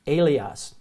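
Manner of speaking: Elias with long A, ay-LEE-ahs; Greek word. Shown as a demonstration. Teacher to class, modelling Elias with long A. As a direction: start Elias on a clear ay. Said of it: "that long A sound".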